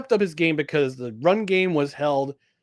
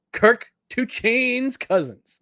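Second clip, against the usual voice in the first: hype announcer; 6 semitones higher, much slower than usual. Pretend. Hype introduction of a player.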